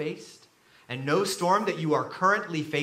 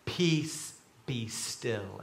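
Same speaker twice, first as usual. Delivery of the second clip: softly, slipping lower and quieter; hushed reading; 7 semitones lower, 7 dB quieter, much slower than usual. A narrator's reading. Reading Jesus' words to the sea, hushed. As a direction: read it low and hushed.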